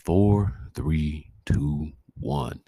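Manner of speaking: loud hyped countdown; radio host countdown. Acted. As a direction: count the show in, punchy. Countdown opening the show.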